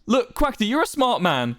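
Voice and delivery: high, urgent appeal; pleading. A narrator's reading. Wilbur appealing to Quackity's smarts, pleading.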